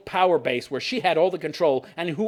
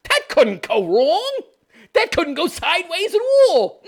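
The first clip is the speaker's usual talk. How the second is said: sarcastic; 9 semitones higher, 4 dB louder than usual. Real, not acted. Sarcastic aside on centralized power.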